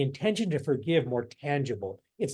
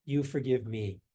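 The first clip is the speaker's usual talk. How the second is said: meditative mantra; 2 semitones lower than usual. Shown as a demonstration. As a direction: murmur it gently with each step. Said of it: "the simple phrase you use is".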